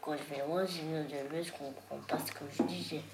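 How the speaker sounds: deep character voice. Acted.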